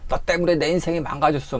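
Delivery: high-pitched accusing cry; blaming outburst. Retold or imitated. Patient attacking the shaman, high accusing outburst. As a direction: hurl the blame at the shaman. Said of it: "하면서 막 가서".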